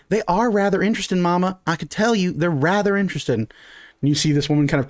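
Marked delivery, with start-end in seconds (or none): 0.1-3.4 higher, lightly voiced eager daughter. Daughter insisting to her mama, lightly voiced eager kid. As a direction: pipe up to mama as the keen daughter.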